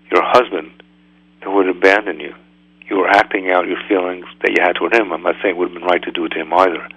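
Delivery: calm reassurance. Retold or imitated. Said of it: "He said".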